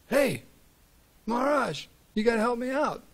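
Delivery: a small mouse pleading for help; high little mouse voice. Acted. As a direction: beg the sage like a tiny mouse. Mouse begging the yogi.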